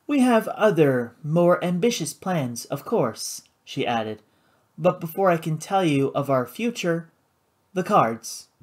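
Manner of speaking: smooth and controlled, a touch up; lightly voiced poised hostess. Karina explaining her club, cool and poised.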